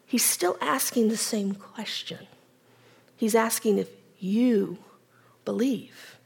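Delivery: soft, breathy hush; whisper. Shown as a demonstration. Preacher whispering Jesus's question to the congregation.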